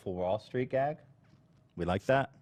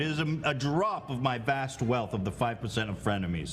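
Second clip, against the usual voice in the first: megalomaniac rant. Acted. Lord role continues.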